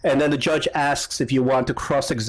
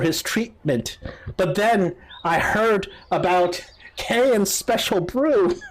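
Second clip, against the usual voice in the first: lightly voiced sad woman, a little higher; higher, plaintive storytelling with slowed endings; grieving mother, partly consoled; 4 semitones higher than usual. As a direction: tell it plaintively as a bereaved mother. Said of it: "after she gets consoled a little bit".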